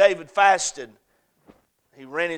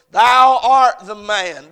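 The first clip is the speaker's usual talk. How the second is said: loud, slow, higher "Thou art the man"; prophet's verdict; 4 semitones higher, 10 dB louder, much slower than usual. Retold or imitated. Nathan confronts David with his sin, slow and loud. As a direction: proclaim it like Nathan pointing at the king. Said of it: "in the words of Nathan the prophet".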